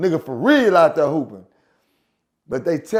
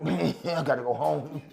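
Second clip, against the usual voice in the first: retold plea; 4 dB louder than usual. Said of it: "I'm like".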